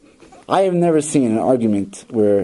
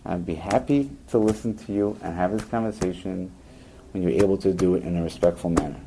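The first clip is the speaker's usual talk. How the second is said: quiet, even, unhurried reply; soft calm boundary-setting; 4 semitones lower, 6 dB quieter than usual. Shown as a demonstration. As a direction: stay calm and steady, don't rise to it. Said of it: "you could say very calmly".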